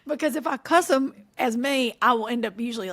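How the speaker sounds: usual speaking voice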